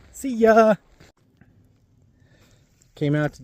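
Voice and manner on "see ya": excited. Real, not acted. Cheery sign-off.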